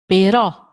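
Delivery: però with a loud open stressed final O; però, open accented O. Shown as a demonstration. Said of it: "open sound".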